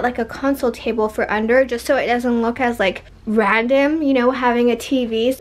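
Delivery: talking a little out of breath; words between light breaths. Real, not acted. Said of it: "I don't know why I'm so out of breath".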